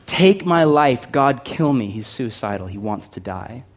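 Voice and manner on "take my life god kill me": a touch of despair. Retold or imitated.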